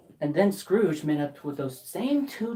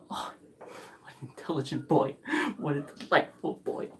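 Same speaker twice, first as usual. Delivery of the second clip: delighted whisper; 4 semitones lower, 5 dB quieter than usual. Acted. Scrooge aside, delighted.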